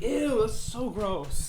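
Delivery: slow, drawn-out disgust. Real, not acted. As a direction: drag it out, grossed out. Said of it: "disgusted at cookie".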